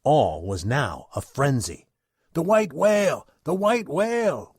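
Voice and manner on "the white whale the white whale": louder, higher whalers' shout; excited cry. Acted. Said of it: "was the cry from captain".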